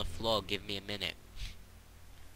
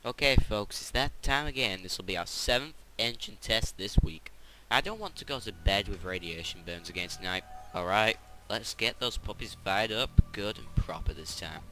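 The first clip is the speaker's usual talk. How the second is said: game character voice. Acted. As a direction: read it like a cheery engineer rallying the crew.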